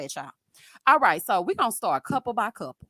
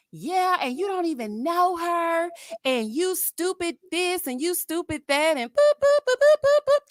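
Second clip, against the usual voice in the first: mocking commenter; 6 semitones higher, 3 dB louder than usual.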